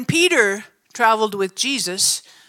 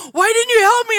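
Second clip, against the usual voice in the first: retold reproach; 11 semitones higher, 7 dB louder than usual. Friend reproaching after ripping free.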